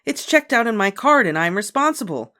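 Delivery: high, loud aggrieved demand. A narrator's reading. Beezus demanding help from mother, loud and aggrieved. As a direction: pour out the unfairness. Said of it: "Beezus demanded".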